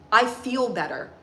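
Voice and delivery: slow, steady talk to the inner critic; firm, calm self-talk. Shown as a demonstration. Speaking to her inner critic Crystal, slow and firm. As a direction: take the wheel back, calmly. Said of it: "I call her Crystal. And I say".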